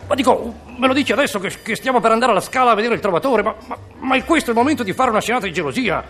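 an annoyed husband hurrying his wife along; flustered husband. Acted. Husband in his tuxedo rushing his wife to La Scala, flustered.

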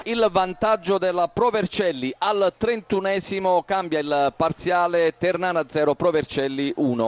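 breathless italian goal commentary. Real, not acted.

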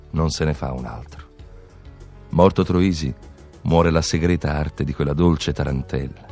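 ordinary talk

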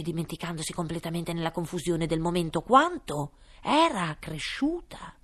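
ordinary delivery

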